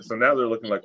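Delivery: ordinary talk, nothing marked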